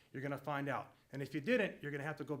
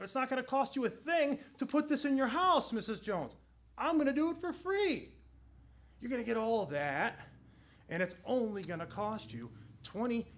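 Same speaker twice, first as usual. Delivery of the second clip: excited sales pitch; 2 semitones higher than usual. Shown as a demonstration. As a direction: sell it to the customer with real excitement. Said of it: "especially if you're that excited and that animated".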